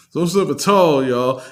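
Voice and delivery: Impression of a rapper. Fan imitating the rapper pulling listener along. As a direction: pull them along on tall. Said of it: "when he pronounce and enunciates".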